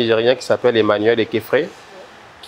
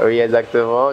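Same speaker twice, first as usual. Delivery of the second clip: laughing admission; sheepish laugh; 5 dB louder than usual. Real, not acted. Artist admitting he was late, sheepishly laughing. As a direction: own up with a chuckle.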